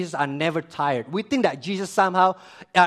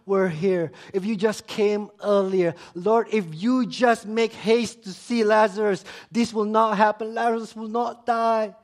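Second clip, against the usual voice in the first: imitated grieving plea, building higher; retold tearful lament; 4 semitones higher than usual. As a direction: plead as a mourner would, without real sobs. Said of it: "Mary and Martha were weeping".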